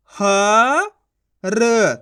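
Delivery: ह held long and rising, then a separate र; letter sounding out. Shown as a demonstration. Teacher pronouncing each letter before joining, sounding out. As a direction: draw out ह and र one by one. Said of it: "एक अक्षर का उच्चारण करके".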